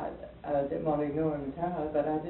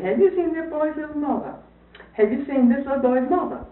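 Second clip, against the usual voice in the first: raised, higher call across the yard; calling out to strangers; 9 semitones higher, 7 dB louder than usual. Retold or imitated. Woman calling to strangers in the yard, raised and higher. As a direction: call out to the passers-by for help.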